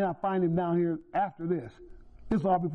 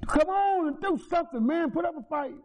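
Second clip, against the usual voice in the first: frustrated plea; 7 semitones higher than usual. Retold or imitated. Pleading at brother in frustration.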